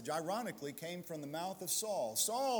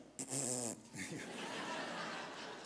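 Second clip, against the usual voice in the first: imitated giggle; 5 semitones lower, 8 dB quieter than usual. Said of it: "And she went".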